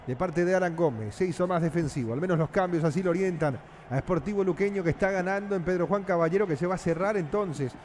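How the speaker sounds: steady running radio match call; football radio narrator in full flow; live football play-by-play. Acted. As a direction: narrate the passes as they happen.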